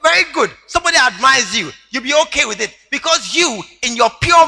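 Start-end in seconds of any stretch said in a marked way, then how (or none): 0.0-2.8 cheerful trusting husband. Retold or imitated. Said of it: "they say".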